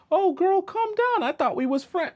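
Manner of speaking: squeaky, high mock placating voice; comic falsetto of a man playing innocent. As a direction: coax her down in a hammed-up falsetto. Acts man soothing an upset woman.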